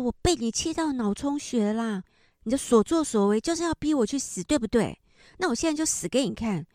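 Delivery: imitating a distraught mother's mild mock yell, quick at the end; agitated yelling. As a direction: voice the mother's outburst, not at full force. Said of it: "就很激动的叫着".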